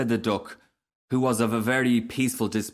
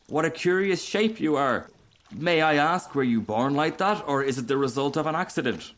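prim duck, pitched higher; higher, wondering storybook duck; curious duck; 5 semitones higher than usual. Acted. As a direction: ask like a nosy, polite duck. The duck questions the Rocket.

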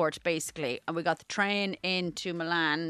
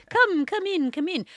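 higher, coaxing beckoning voice; creepy man voice; 11 semitones higher, 3 dB louder than usual. Retold or imitated. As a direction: lure guests in, sleazy. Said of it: "that's not an Italian accent".

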